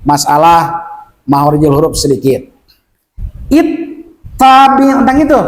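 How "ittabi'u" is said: "Ittabi'u" with the t held double; doubled consonant. Shown as a demonstration. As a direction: hold the t in "Ittabi'u" slowly. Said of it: "Kalau musadah tuh".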